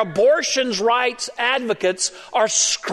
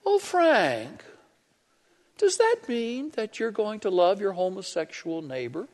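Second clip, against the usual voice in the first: condescending; 6 dB quieter than usual. Retold or imitated. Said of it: "talk so condescending".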